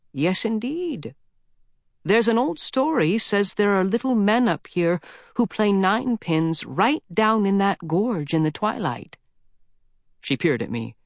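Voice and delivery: put-on high old woman telling a legend; old mountain lady, spooky. Old lady tells boy the ninepins legend, high and hushed. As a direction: lean in like a granny with a ghost story.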